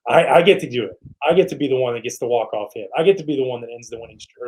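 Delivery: thrilled at the chance to be the hero; excited. Retold or imitated. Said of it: "excitement instead of like".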